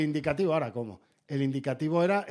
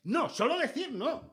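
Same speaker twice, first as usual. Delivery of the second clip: much higher, lighter "solo decir"; mock correspondent; 8 semitones higher, slower than usual. Mocking the same correspondent again, high and teasing. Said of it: "Y dicen".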